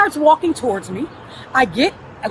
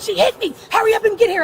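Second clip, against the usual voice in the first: higher-pitched imitation of an urgent caller; mimicked complaint; 6 semitones higher than usual. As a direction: lightly mimic someone pleading on the phone. Mimicking the man's phone complaint.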